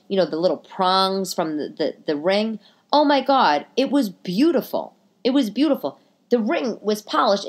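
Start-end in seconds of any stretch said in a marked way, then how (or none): 2.9-7.5 gushing. Real, not acted. Raving about clean ring.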